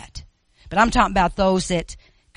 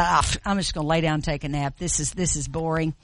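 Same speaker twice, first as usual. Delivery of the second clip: bored dismissive; 2 semitones lower, faster than usual. Acted. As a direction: shrug it off and yawn it out. Hare dismisses race, lies down.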